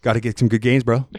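lightly voiced gym-bro hype; Letterkenny jocks. Imitating Letterkenny hockey guys, light bro hype. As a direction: pump up the boys like a hockey bro. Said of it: "talking like those two kids".

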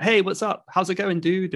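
lightly put-on American movie greeting. Shown as a demonstration. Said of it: "you would hear in American movies".

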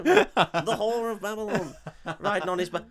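lightly voiced preacher. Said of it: "I went a bit Josh Whittaker".

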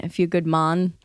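lightly attempted Jamaican accent on "Mon"; terrible Jamaican accent. Pitching a parody movie title, bad Jamaican accent. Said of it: "That was a terrible Jamaican accent".

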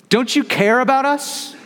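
high, desperate cry for help; frightened disciple begging Jesus; panicked plea. Acted. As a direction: plead like you're about to drown. Panicked disciples crying out in storm.

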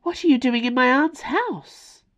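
high-pitched, indignant demand; indignant challenge. A narrator's reading. Bella questioning a beast in her aunt's house, indignant.

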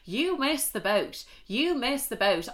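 slow, sing-song brush-off; smug dismissal. Retold or imitated. Girl turning down her ex, slow and gloating. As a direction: savour it slowly, gloating. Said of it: "I was like".

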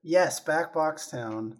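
loud, slow, drawn-out announcement; announcing a plug. Real, not acted.

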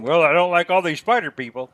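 mocking Brad. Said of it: "now here you're saying".

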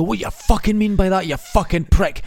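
loud, high furious rant; furious demo. Shown as a demonstration. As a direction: blow up at them full force. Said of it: "Take it to a hundred".

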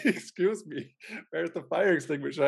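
polite question through suppressed amusement; earnest asking, imitated. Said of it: "he asked everybody".

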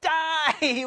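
high, loud, hammed-up wail; mock panic. Manoah to his calm wife, high hammed-up panic. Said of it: "he looked at it with great panic".

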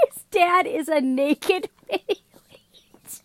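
very high, loud shrieking laugh; crying with laughter; hysterical laughter. Real, not acted. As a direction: lose it completely laughing. Laughing fit over naked wheat.

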